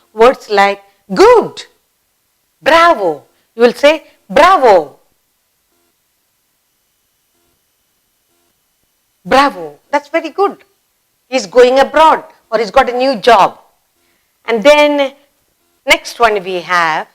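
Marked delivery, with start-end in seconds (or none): 4.3-13.6 approving. Shown as a demonstration.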